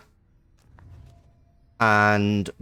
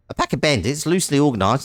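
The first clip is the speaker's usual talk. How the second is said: a vague, drifting put-on accent on "A pack of bandits loosely organised"; loose, unplaced accent reading the bandit lore; wandering accent; 3 semitones higher, faster than usual. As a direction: start an accent that can't settle anywhere. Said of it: "I'm not sure what this accent's doing".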